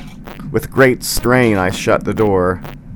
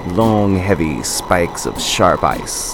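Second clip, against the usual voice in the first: slow doom-saying friend; slower than usual. Acted.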